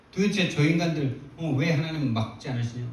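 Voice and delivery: half-hearted demand why God allows it; mock arguing prayer. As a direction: argue with God, lightly retold. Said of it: "막 따지듯이 막 기도하는데".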